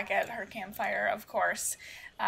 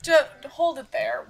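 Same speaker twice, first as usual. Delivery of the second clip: guard's shout; 5 semitones higher, 8 dB louder than usual. Acted. Guard stops her at camp.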